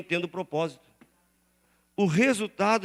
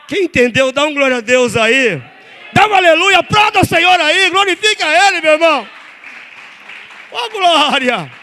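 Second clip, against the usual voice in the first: much higher and much louder, crying out; ecstatic praise shout; 9 semitones higher, 13 dB louder than usual. Acted. Pastor calling the church to shout glory, shouted high. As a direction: whip the crowd into praise.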